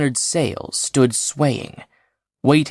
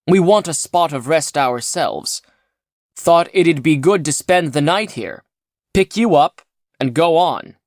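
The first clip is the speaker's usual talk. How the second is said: slightly higher, brisk friendly pilot; a hint of a cheerful spaceman; lightly voiced rescuer; 5 semitones higher, 4 dB louder than usual.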